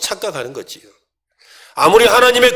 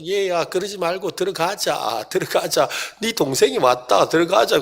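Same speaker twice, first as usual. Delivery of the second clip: gentle father; 3 semitones higher than usual. Acted. Father pleads with elder son.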